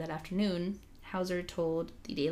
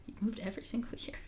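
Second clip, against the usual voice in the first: surprised whisper; 3 semitones higher, 6 dB quieter, much faster than usual. Retold or imitated. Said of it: "I was like".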